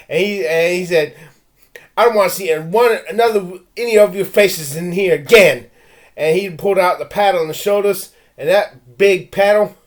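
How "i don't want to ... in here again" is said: stern and louder; imitating angry principal. Principal warning the kids never to come back, angry. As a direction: warn them off like a principal. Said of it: "He was angry".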